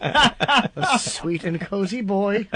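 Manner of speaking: slow cooing through laughter; laughing coo. Pretend. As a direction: coo it slowly, giggling.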